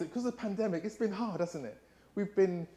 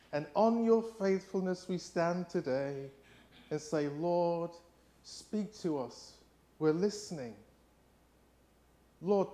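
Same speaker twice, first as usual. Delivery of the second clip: prayer. Acted. Leads a prayer.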